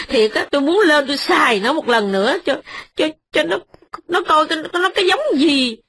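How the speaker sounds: indignant wife, pitch rising to a peak; outraged wife. Acted. Wife's outraged outburst at landlords.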